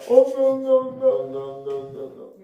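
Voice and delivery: slow, high mock sobbing; drawn-out pretend boo-hoo wail; imitated wailing. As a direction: imitate juniors crying in slow, steady wails. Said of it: "막 우는 목소리가 들리는 거야".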